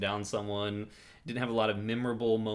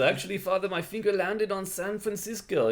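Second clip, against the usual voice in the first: timid priest voice; 9 semitones higher than usual. Retold or imitated. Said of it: "he goes".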